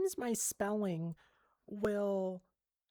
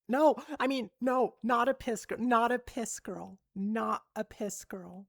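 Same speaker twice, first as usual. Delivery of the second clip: loud, insistent denial; emphatic correction; 6 dB louder than usual. Real, not acted. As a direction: blurt out a protest, easing off at the end. Hurriedly correcting what they just said.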